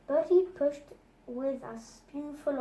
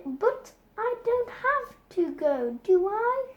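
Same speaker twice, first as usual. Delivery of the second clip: put-on higher, pleading kid voice; a little boy hoping to escape; boy begging not to go; Bertie whining; 7 semitones higher, 3 dB louder than usual. A narrator's reading. Bertie protests, child voice.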